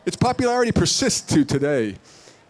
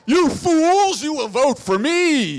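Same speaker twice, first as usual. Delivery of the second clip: Skeletor voice; 8 semitones higher, slower than usual. Acted. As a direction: gloat at the crowd like an evil overlord. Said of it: "Rick Skeletor for senator".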